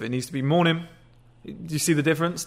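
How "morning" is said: short greeting that goes down at the end; assertive. Shown as a demonstration. Man greets office receptionist, assertive. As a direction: say MORNING assertively, dropping at the end. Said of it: "It needs to be assertive".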